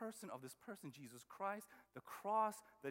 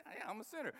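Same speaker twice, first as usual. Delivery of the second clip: guiltless shrug; 2 semitones higher, faster than usual. Retold or imitated. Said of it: "there's no guilt".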